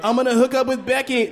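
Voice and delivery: high goofy dude voice; a silly high bro voice; mock whale bro. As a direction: play a horny whale bro. Acted whale quote.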